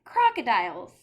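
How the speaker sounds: loud delighted burst; thrilled exclamation. Acted. Child thrilled by the word crocodiles. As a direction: shout it with glee.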